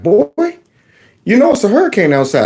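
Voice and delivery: hint of a stern mom; mother scolding. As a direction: play the exasperated mother. Mother voiced in story.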